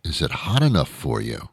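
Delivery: understated imitation, softly questioning; baffled quoting back. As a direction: quote it back in puzzled disdain. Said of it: "what kind of question is that".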